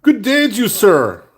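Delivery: high, loud, hammed-up Irish greeting; over-the-top fake Irish accent; terrible Irish accent. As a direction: belt out a badly faked Irish hello. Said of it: "my really terrible Irish accent".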